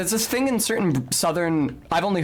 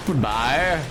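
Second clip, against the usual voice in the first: bad British accent. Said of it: "I nicked it".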